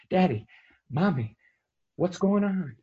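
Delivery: put-on boy on the table to his parents, high and frightened; scared child. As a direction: call out to his parents, confused.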